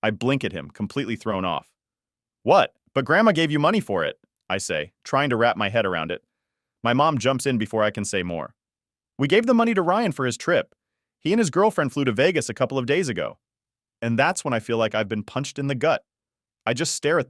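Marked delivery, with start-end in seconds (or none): 2.4-4.2 shocked. Acted. Shocked at parents' news. 9.2-13.4 dismissive mom. Acted. Mom voiced in story.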